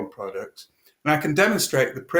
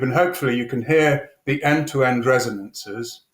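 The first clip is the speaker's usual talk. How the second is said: through a tube. Shown as a demonstration. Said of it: "I'm going to talk into this tube".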